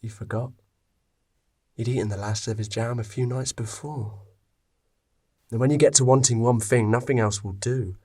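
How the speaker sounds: steady storyteller reading; calm story read aloud; story narration. A narrator's reading. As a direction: tell it like a fireside tale.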